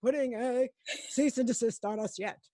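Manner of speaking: steady newscaster sign-off voice. Acted. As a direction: read it like a newscaster. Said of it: "your newscaster voice".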